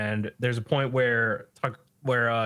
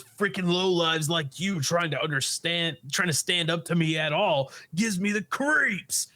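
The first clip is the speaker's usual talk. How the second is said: raised-pitch irritated villain rant; contemptuous outburst; 5 semitones higher than usual. Retold or imitated. Bully McGuire to the heroes as he kicks, contemptuous. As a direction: build disgust toward the last word. Retold villain sneering while attacking.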